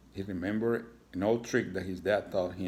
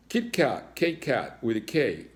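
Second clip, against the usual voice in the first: higher, eager little cat; proud cat spells his name; cat kid voice; 4 semitones higher, 4 dB louder than usual. Acted. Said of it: "Kit Kat answered".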